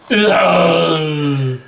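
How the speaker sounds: machine winding down noise; voiced robot power-down whine; power-down sound. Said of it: "That's his power down sound".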